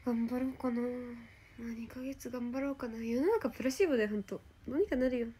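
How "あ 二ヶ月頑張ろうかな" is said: whispering. Real, not acted. Whispered musing to self.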